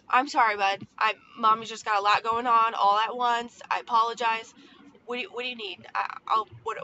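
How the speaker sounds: apologetic mom. Retold or imitated. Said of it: "I say it like that".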